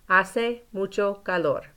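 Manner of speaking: "Hace mucho calor" slowly, for the class to repeat; slow model for repeating. Shown as a demonstration. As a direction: give "Hace mucho calor" clearly, then pause. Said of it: "Por favor, repitan después de mí".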